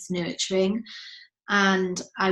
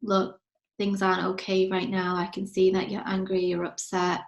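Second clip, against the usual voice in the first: gentle comforting mum. Shown as a demonstration. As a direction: comfort a crying daughter. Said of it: "place my hand on her shoulder and say".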